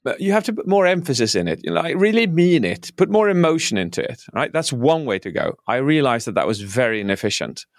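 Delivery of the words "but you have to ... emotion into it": high, fast pushy coach voice; a coach pressing a speaker for more emotion, pitched high; coach urging. Retold or imitated. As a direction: urge them on like an eager coach. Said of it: "You can say".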